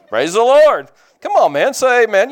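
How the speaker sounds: loud, high-pitched exhortation; rousing call-out. Real, not acted. Preacher rallies the men to say amen, rousing shout. Calling on congregation for amens.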